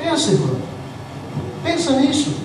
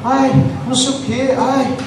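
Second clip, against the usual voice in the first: queixa arrastada e mais baixa, imitando; crente preguiçoso imitado; 4 dB quieter than usual. Retold or imitated. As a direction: imite o fiel enfadado, sem vontade. Mimicking lazy whiny churchgoer. (imitação debochada do fiel cansado, em tom baixo)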